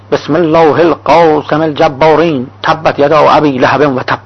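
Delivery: slow, measured chant of scripture; intoned Arabic verse, stretched out for effect; mock recitation. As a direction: recite it slowly and solemnly, drawing out each phrase. Acts out a hypothetical harsh recitation.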